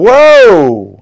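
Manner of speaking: very loud, excited shout belted out. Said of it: "but that second track".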